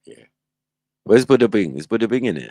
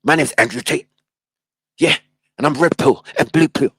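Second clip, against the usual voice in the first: high, loud mock robot Tate; Andrew Tate robot; 9 semitones higher, 5 dB louder than usual. Streamer mocking Andrew Tate as a robot, high and loud. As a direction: parody a glitchy robot man. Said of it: "anyone who talks like a robot".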